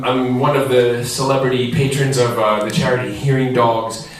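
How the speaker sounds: talking while short of breath; winded, catching breath between words. Real, not acted. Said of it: "I'm out of breath now".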